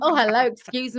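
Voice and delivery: loud, mock southern flirt; mock swooning southern hello; southern accent. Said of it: "That accent will be used a lot".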